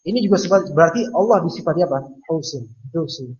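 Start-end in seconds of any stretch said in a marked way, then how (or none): 2.3-3.4 mocking singsong. Shown as a demonstration. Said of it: "Penghinaan bukan".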